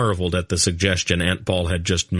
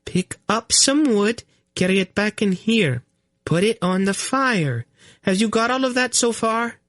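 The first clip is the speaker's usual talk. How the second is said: high queen voice, slow, every word spelled out; slow and distinct. Acted. Queen giving Garion slow careful orders. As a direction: spell each instruction out for him. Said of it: "speaking very slowly and distinctly".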